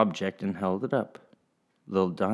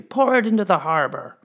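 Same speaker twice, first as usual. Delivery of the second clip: high, hard order; lady ordering the wheat away; cold command; 10 semitones higher, 5 dB louder than usual. Acted. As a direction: dismiss his gift icily. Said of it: "said the lady".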